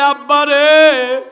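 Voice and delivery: slow, drawn-out cry of father; mournful call. Acted. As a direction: draw the word out in grief. Son at father's grave.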